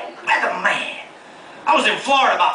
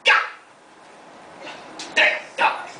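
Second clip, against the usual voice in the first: upset outburst; 9 semitones higher, slower than usual. Retold or imitated. Upset guy in bathroom.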